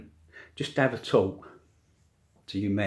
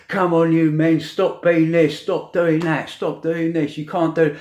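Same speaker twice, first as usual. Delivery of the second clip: mocking scold; 5 semitones higher than usual. Mocking social media scolds.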